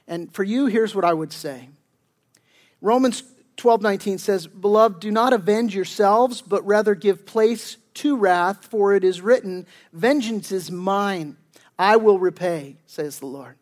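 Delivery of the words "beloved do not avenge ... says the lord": slow, weighty Bible reading; scripture reading. Real, not acted. Pastor reading Romans to the wronged, slow scripture reading. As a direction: read it out slowly, pausing between phrases.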